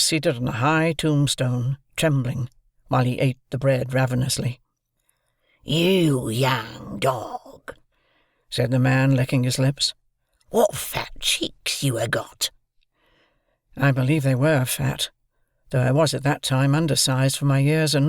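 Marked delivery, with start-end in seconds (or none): 5.6-12.5 put-on loom over the boy and growl it; menacing convict. A narrator's reading.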